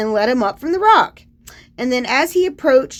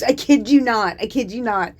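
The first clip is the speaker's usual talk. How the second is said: usual speaking voice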